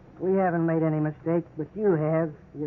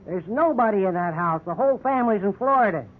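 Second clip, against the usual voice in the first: louder, harsh brush-off; gruff scorn; 3 semitones higher, 4 dB louder than usual. Acted. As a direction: bark it at the suspect. Cop scoffs and orders march.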